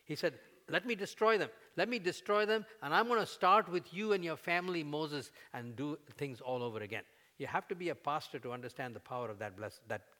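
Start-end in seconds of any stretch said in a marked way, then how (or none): 0.7-1.5 God's voice, raised. Acted. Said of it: "basically God says to Moses". 1.8-7.0 God's voice, raised again. Acted. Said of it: "basically God says to Moses".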